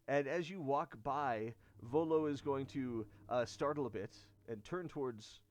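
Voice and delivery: normal talking voice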